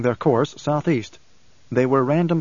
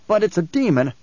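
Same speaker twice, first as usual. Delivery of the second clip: higher-pitched, mildly alarmed objection; protesting youth; 5 semitones higher than usual. A narrator's reading. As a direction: protest as the young guide. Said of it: "the youth protested".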